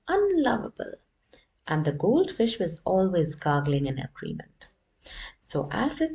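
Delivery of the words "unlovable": high, loud squawk; high parrot squawk. Acted. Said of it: "The parrot was always squawking".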